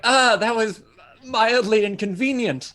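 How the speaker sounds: hammy thug, barely bothered. Acted. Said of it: "That was a great Thug voice".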